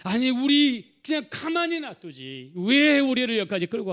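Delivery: high, drawn-out whine of protest; grumbling complaint. Acted. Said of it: "험담했습니다".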